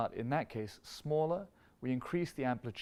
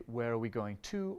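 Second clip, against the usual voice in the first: "going to" asked with a rising lift; tune rising toward "to". Shown as a demonstration. Teacher asking where the phrase goes, rising. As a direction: lean forward onto "to" with a rising question. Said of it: "We have to say".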